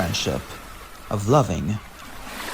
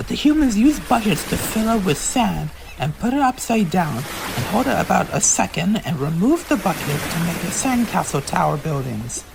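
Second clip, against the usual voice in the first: explaining; 5 semitones higher than usual. Acted. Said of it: "explaining to Elita One".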